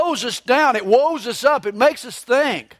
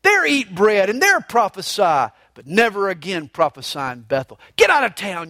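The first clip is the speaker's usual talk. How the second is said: mock angry king ordering him away; a hint of a furious king. King Amaziah driving the prophet out, mildly angry. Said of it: "he says".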